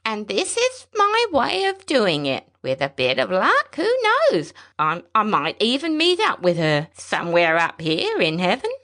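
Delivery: gently hopeful through grief; old pilot speaking of meeting his wife in heaven, wavering. A narrator's reading. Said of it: "The thin voice wavered".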